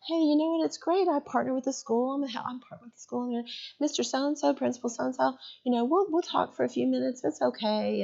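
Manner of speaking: dog-and-pony show. Retold or imitated. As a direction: put on a breezy show to smooth things over. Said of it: "I did my little dog and pony show".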